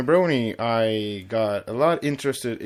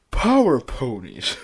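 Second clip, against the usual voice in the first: louder, dramatic hero call; dramatic quote; 4 dB louder than usual. Acted. Reading a Power Ponies quote with proper emotion, heroic. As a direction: announce it like a cartoon hero. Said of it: "get the proper emotion in the quote".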